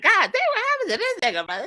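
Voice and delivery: friend's exaggerated high-pitched shock at a gray-haired player; mock shocked friend. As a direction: gasp it out like you can't believe your eyes. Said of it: "Kyle's like".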